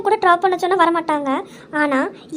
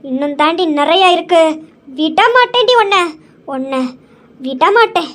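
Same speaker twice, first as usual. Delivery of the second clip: gloating threat; 3 semitones lower than usual. Acted. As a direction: savour the revenge as you threaten her. Villain gloats over injured maid. (வில்லி மெதுவாக மிரட்டும் குரல்)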